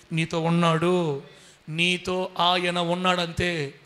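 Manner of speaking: very slow, weighty promise; slow, deliberate comfort; slow assurance. Real, not acted. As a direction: draw each word out to reassure.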